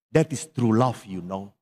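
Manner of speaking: ordinary talk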